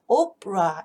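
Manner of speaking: "opera" as OP-ruh, middle vowel almost gone; opera with schwa. Shown as a demonstration. Teacher showing the near-silent middle of "opera". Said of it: "소리가 거의 들리질 않습니다".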